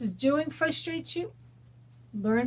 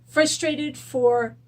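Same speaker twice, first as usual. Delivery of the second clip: slow emphasis; 3 semitones higher, 5 dB louder, much slower than usual. Shown as a demonstration. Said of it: "I'm going to use".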